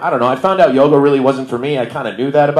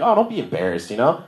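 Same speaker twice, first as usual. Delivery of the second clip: much higher, sing-song encouraging instructor voice; mock chirpy yoga teacher; 8 semitones higher than usual. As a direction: play the relentlessly upbeat yoga teacher cheering on a beginner. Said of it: "They're like".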